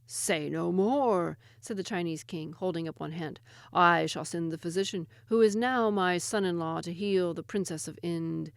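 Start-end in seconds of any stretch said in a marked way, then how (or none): 0.0-1.4 regal command. Acted. Chinese king stops the messengers. 3.7-8.5 regal king. Acted. Chinese king answers.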